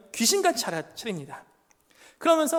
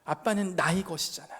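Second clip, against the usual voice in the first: ordinary talk, nothing marked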